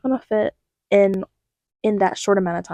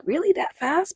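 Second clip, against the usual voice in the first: mock disbelief; 9 semitones higher, 5 dB quieter than usual. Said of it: "I'm just like".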